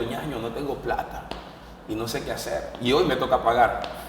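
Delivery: mild, soft retold admission of defeat; confesión abatida. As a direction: confess it quietly to a brother, a touch downcast. Llama abatido al hermano, sin dinero. (confesión abatida, en voz baja)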